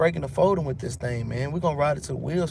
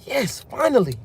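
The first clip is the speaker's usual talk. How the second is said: king crows in triumph, high and loud; a smug king who thinks his god won; gloating king; 6 semitones higher, 4 dB louder than usual. Retold or imitated. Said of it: "He said".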